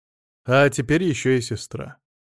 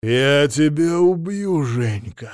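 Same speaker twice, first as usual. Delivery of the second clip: slow, menacing threat; Мамонов медленно угрожает; 3 semitones higher, 5 dB louder, much slower than usual. A narrator's reading. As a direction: promise to kill him, slowly. Mamonov rises, fists clenched.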